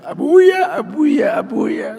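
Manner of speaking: put-on high excited child calling Abuya. Child running to greet father, calling out eagerly.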